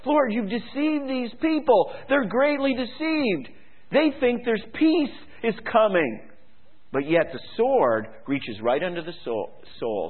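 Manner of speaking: lightly voiced crying out; prophet cries out. Preacher paraphrases Jeremiah crying to God, mild anguish. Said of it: "the prophet cries out and says".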